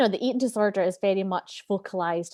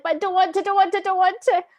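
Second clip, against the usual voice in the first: higher, louder whining refusal; whining child; 10 semitones higher, 5 dB louder than usual. Retold or imitated. The inner child refusing her coaxing, higher whine. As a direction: stamp your foot like a child saying no. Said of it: "I'm like".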